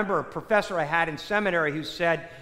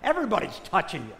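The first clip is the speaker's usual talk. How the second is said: softer, offhand mock incredulity; understated sarcastic disbelief, thrown away; mildly sarcastic; 4 semitones lower, 5 dB quieter, faster than usual. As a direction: imitate sarcastic disciples, lightly. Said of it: "The disciples somewhat get sarcastic".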